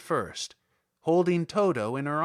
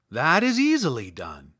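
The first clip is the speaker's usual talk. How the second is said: lightly voiced Scarecrow; 3 semitones lower, 4 dB louder than usual. A narrator's reading.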